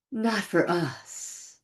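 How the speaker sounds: slow "Not for us" with a drawn-out "us"; quoted reply, lingering on "us"; stress on us. Retold or imitated. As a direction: let "us" stretch out slowly, imitating her reply. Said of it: "she said it just like that".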